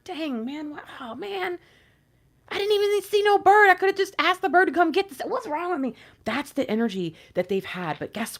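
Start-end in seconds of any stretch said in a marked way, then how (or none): 0.0-5.9 high, rueful fool voice, rising to a louder cry; the dupe realizing he was tricked; kicking oneself. Retold or imitated. Divine masculine realizing the snake tricked him, high rueful groan.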